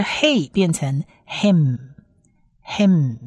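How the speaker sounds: hey closed into hem with a long hummed m; model pronunciation. Shown as a demonstration. Teacher adds final mem for learners, drawing out hem. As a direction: slowly turn hey into hem, holding the m. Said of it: "前面的发音再加上一个m的音结".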